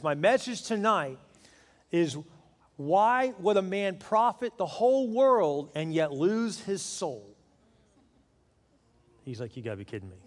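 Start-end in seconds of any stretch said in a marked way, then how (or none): 0.0-7.3 slow, preacher's sermon delivery; Billy Graham. Retold or imitated. Famous preacher opens his stadium sermon, slow preaching impression. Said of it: "And Billy Graham says". 9.6-10.2 low, soft muttered disbelief; stunned aside. Retold or imitated. Husband caught out by the sermon, quiet disbelief.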